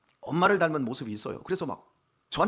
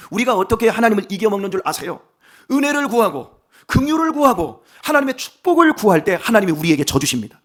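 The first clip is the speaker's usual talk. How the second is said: rising, louder pulpit appeal; fervent preaching; 4 semitones higher, 9 dB louder than usual. Acted. Pastor urging his congregation to seek grace, fervent preaching. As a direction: drive the point home to the pews.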